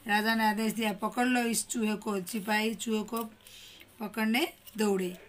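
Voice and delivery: put-on lively storybook reading for young pupils; teacher reading a class-two story aloud; reading a story to children.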